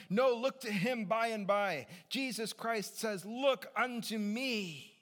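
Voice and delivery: high, loud preaching in pirate-like Essex; broad Essex gone pirate. Acted. Preacher urging people to look to Jesus, pirate-like Essex. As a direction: bellow it out in a badly faked Essex accent. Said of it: "the only accent I have is pirate accent".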